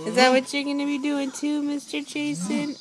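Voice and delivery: playful teasing. Real, not acted. Mother teasing toddler, high loud.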